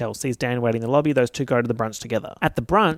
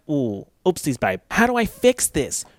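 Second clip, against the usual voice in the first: mock Serena; 3 semitones higher than usual. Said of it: "And Serena is like".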